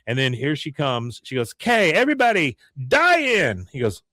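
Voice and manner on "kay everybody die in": high call to the group; rally the crowd in a high mock girl's voice; higher, raised-pitch announcement; imitated protest leader. Luann calls protesters to die-in.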